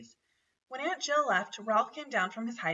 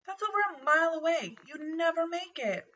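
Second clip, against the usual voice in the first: incredulous; 8 semitones higher than usual. A narrator's reading. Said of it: "Garf was incredulous".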